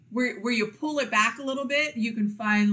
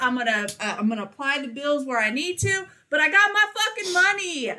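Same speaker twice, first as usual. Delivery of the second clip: higher and louder, bouncing with glee; giddy bragging; 7 semitones higher, 3 dB louder than usual. Pretend. Voicing what her friend wanted to say, giddy bragging. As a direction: brag like a kid with a paycheck. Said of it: "That's what you wanted to say".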